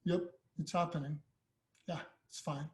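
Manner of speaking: softly unbothered, trailing down to very quiet; calm. Acted. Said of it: "So calmer you are".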